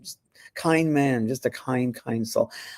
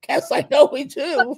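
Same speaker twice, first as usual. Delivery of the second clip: high, slow, laughing reply; amused high-pitched answer; 13 semitones higher, 4 dB louder, slower than usual. Retold or imitated. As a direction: giggle through the line.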